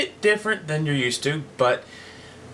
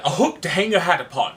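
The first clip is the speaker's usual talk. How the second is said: cavalier; 4 semitones higher than usual. Acted. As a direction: toss it off with cavalier ease.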